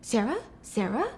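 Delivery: rising into high loud panicked questions; the mother's confusion building into high, loud panic; shocked mom. Acted. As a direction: start bewildered, then climb into alarm. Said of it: "She's like".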